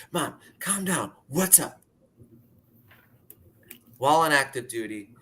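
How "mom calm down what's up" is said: higher, slow, gentle soothing of mom. Retold or imitated. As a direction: ease her down slowly. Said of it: "I didn't say shut up, but I was like".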